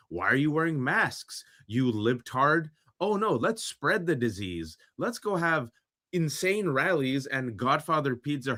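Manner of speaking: hammed-up mock enthusiasm for spreading covid; mocking sarcastic voice. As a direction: sneer it like a gleeful anti-masker. Mocking anti-mask America voice.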